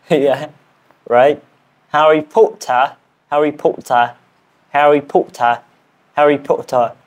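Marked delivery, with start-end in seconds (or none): 1.9-6.9 British-style "Harry Potter", open r-less ending; British accent attempt. Shown as a demonstration. Learner repeating a challenge name, British accent attempt. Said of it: "I am learning British accent".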